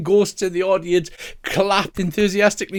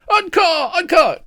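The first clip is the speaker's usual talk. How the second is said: crowd cheer; 13 semitones higher, 4 dB louder than usual. Acted. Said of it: "they're shouting".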